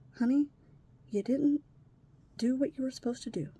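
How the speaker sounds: retold gentle reproach, in short pieces; measured, placating honey; keeping him calm. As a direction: soothe while correcting, with careful pauses. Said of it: "Trying to keep him calm".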